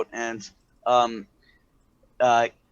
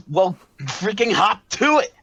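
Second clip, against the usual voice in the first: higher, snapping command; impatient order; 6 semitones higher, 4 dB louder than usual. Acted. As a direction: bark at him to hurry. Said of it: "she says".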